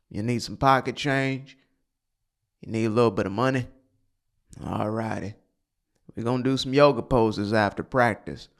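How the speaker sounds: lightly voiced old coach with a Southern accent; deep Southern accent. Coach humoring his young girlfriend after practice, mock Southern accent. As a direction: indulgent sweetheart talk in a mild mock Southern accent. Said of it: "got this deep Southern accent".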